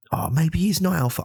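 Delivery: high, sneering voice of a doubtful listener; mocking doubter. Podcast host mocking his listener's doubt in a high voice. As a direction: squeak it like a scornful doubter.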